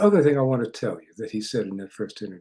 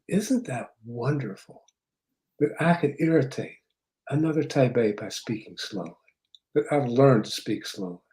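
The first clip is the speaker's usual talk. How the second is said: imitating slow speech. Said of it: "you speak so slowly".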